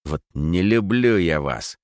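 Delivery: slow, spat-out disdain; contemptuous. Acted. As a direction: spit the words with contempt. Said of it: "сплюнул под ноги Макс".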